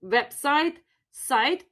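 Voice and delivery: "website" and "site" modelled with rising tune; Russian pronunciation. Shown as a demonstration. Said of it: "or we often say site".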